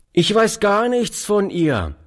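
put-on high, friendly boy's voice; a street lad answering kindly. A narrator's reading. Strange boy answers old Oliver kindly, high friendly boy voice. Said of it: "antwortete der fremde Junge freundlich".

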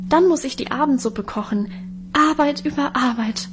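lightly voiced complaining sister; a hint of a fussy young woman. Minchen complains to friend Adele.

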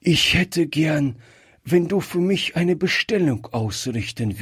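a gentle plea from a frail grandfather; dying grandfather, earnest. Acted. Dying grandfather asks his granddaughter for help, lightly voiced, earnest.

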